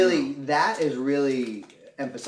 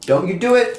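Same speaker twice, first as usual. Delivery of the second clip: urgent shout; 8 semitones higher, 10 dB louder than usual. Real, not acted. Pleading as model collapses.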